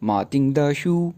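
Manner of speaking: मातिंग द शू read slowly and clearly; slow example reading. Shown as a demonstration. Teacher slowly reading the example to the class. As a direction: read the phrase slowly for students to repeat. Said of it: "यहाँ जो द है".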